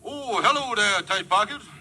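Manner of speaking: breezy, sly hello to the boss; Kingfish voice. Acted. Kingfish answers the boss's call, a breezy sly greeting. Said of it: "Kingfish speaking".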